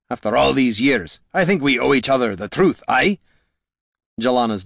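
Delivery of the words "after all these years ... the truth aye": firm dwarf voice with dialect; plain-dealing dwarf. Acted. Gorm to the Mask, frank dwarf voice. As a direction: speak as a dwarf confronting an old foe.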